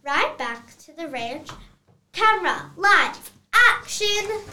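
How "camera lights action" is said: loud director's cue; calling action. Acted. Director sending the actors off, loud call.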